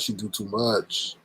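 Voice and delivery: "she do too much" muttered softly and slowly; quiet. Shown as a demonstration. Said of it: "They be doing too much".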